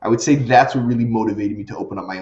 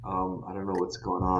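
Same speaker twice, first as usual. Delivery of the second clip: laggy video call; 6 semitones lower, 8 dB quieter than usual. Real, not acted. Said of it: "Your sound is back now".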